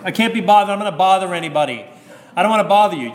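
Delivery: put-on high, loud, fussing old nan; Greek New York grandma. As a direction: play the stubborn old nan who won't be a bother. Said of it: "Typical Greek New Yorkers".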